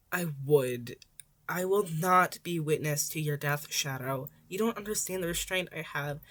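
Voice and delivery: a hero insisting out of worry; firm Eraserhead. Acted. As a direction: refuse to back down.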